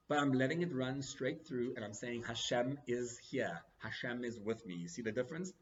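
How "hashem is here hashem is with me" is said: slow, steady affirmation of faith; calm reassurance. Retold or imitated. Telling himself God is with him, slow calm reassurance. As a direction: settle yourself with each word. Self-reassurance amid the anxiety.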